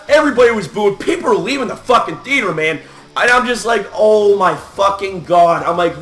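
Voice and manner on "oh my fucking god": slow, drawn-out disbelief; stunned disbelief. Retold or imitated. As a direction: re-enact slow-dawning dismay. Retelling his disbelief in theater.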